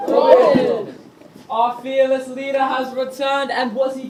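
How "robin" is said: calling out. Acted. Men greet returning leader.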